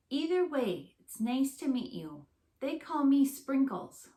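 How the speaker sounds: bright little critter, pleased to meet you; a cheerful skunk greeting her famous guests; friendly skunk voice. Acted.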